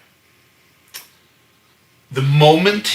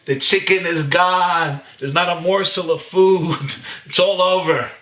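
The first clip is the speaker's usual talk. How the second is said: mock-tragic lament; 6 semitones higher than usual. Hungry husband finding the chicken gone, mock-tragic lament. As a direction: mourn it like a great catastrophe.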